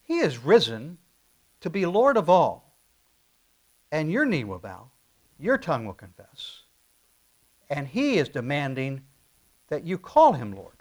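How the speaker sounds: loud, ringing declaration; too bright. Shown as a demonstration. Pastor pushes the phrase at his hearers, forceful and loud. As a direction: drive each line home with force. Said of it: "that's a little too bright".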